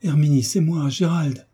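appel plus haut et plus fort, pressant; réveillez-la de votre voix; voix pénétrante. Acted. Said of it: "de la voix la plus pénétrante". (Gérald appelle Herminie évanouie, voix pénétrante)

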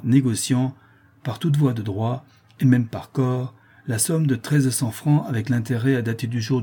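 officious reading of a legal writ; measured, official read-out; clearly articulated judgment. A narrator's reading. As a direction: articulate each legal phrase distinctly. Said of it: "il articula nettement les derniers mots".

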